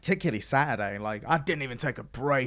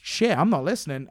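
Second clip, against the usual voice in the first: laughing realisation; 4 semitones higher than usual. Retold or imitated. Zoning out while interviewing, laughing startled realisation. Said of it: "suddenly I go".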